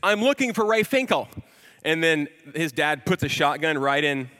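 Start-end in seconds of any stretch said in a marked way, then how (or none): 0.0-1.3 imitating Ace Ventura. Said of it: "and he says".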